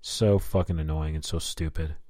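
usual speaking voice

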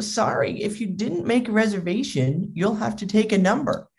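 mildly officious apology; maitre d'. Acted. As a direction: imitate a host politely refusing. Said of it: "And he's like".

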